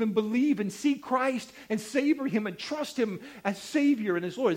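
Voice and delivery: pleading, model prayer building in intensity; earnest prayer. Shown as a demonstration. Preacher showing the congregation how to pray for a lost friend, earnest pleading. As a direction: petition God, phrase upon phrase, rising in pitch. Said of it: "what do we pray?".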